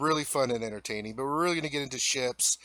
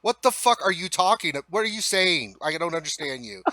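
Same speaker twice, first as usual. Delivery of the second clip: mock exasperation; 3 dB louder than usual. Acts baffled listener to Cockney.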